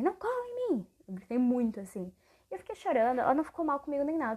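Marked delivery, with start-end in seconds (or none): 0.0-0.9 high-pitched mock yell, volume held back; imitating an outburst, pitch shooting up; retold yell. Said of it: "E eu gritei".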